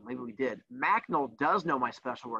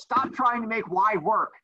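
put-on Mean Girls quote; 5 semitones higher, 3 dB louder than usual. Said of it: "just like Mean Girls".

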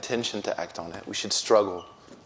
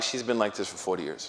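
laughing; 3 semitones lower, 6 dB quieter than usual. Retold or imitated. Sons answer, speaker laughing.

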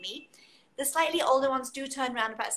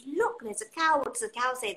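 put-on reading to a toddler; 4 dB louder than usual. Shown as a demonstration. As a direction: show a baby the cow in a book. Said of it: "and you say".

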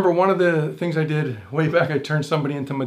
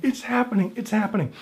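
higher-pitched, contained excitement; inner excitement; 5 semitones higher than usual. Retold or imitated. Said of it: "But inside, I'm like".

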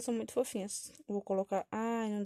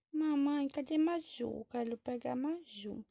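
put-on higher toddler voice asking mother; pleading little child; 4 semitones higher, slower than usual. Child asks mother for baby Maju, childlike and pleading. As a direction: beg like a small kid.

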